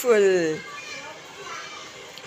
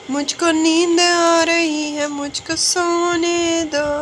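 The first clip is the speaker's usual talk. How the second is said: sleepy whine; 5 semitones higher than usual. Real, not acted. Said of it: "आपका जैसे tone, tone था ना".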